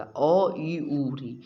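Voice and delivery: अ ई ऊ री each said as a short vowel, spaced out slowly; short vowel demo. Shown as a demonstration. Teacher showing students the short vowels, slow and deliberate. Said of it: "अ बोलिएगा तो इसमें बहुत कम समय लगेगा".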